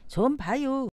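short, understated Chungcheong dialect; 충청도 사투리. Shown as a demonstration. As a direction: keep it brief, Chungcheong style. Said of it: "충청도". (짧은 충청도 사투리)

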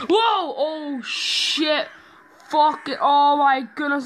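high, loud panicked shouts; terrified yelling. Real, not acted. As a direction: scream it out at the jump scare. Jump scare in horror game.

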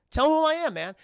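the same demand now bellowed; shouted demand. Retold or imitated. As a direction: yell it across the throne room. Killmonger demanding, building up.

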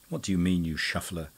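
panting. Acted. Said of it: "panted the fire-eating poet".

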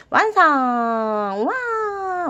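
high, bright cheer; a teacher cheering for the finished dragon; excited cheer. Real, not acted. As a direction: celebrate the finish like a party.

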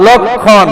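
"লক্ষণ" with a long kkh and silent m; kkh, silent মফলা. Shown as a demonstration. Teacher answers what we will say, লক্ষণ as lokkhon. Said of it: "আমরা এটা কি, কি বলবো?".

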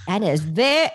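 loud Cajun character voice; lightly stretched New Orleans impression; Maury. Starting her audition impression for Vinny, in Maury's voice. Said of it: "She goes".

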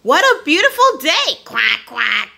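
excited duck shout. A narrator's reading. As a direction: burst out cheerfully about the day. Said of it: "shouts Dotty".

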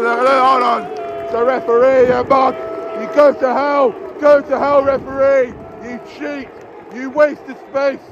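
loud, high furious yell; enraged fan cursing the ref; angry yelling. Real, not acted. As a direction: scream curses at the referee. Furious outburst at referee.

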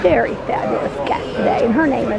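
lightly put-on radio host announcing. Mom playing host introducing her daughter at the airport, radio host. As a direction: introduce a guest like a live broadcast. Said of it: "my accent just changed from radio host".

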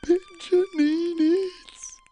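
loud demanding. Acted. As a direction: insist loudly on needs. Pigeon demands.

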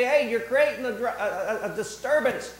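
high, loud complaint; mock scolding. Preacher voicing the Pharisees complaining to Jesus, high and loud. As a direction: scold like a fussy official.

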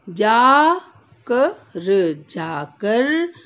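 जाकर with the आ held long and rising; slow जाकर; stretched aa. Shown as a demonstration. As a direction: draw out the जा of जाकर. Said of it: "खींच के बोलना है".

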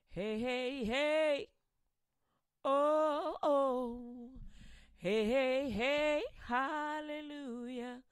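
high, loud, joyful cheering; God rejoicing. Acted. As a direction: cheer like a proud father. God voiced rejoicing over Enos.

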